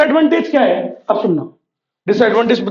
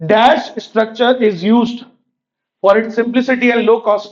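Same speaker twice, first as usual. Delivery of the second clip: very slow, every word spaced out for notes; slow dictation; much slower than usual. Shown as a demonstration. Teacher dictating the key line to students, very slow and deliberate. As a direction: dictate it slowly so students can write each word. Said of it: "एक एक word याद रहना चाहिए आपको".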